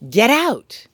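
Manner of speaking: retold urgent shout. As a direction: shout a warning in panic. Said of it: "he shouted to his wife".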